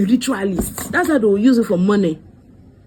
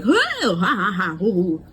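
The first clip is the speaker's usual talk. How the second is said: mock dramatic laugh. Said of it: "like, dramatic".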